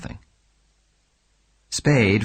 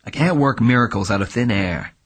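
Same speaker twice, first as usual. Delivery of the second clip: irritably; 4 dB louder than usual. Acted. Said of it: "he said irritably".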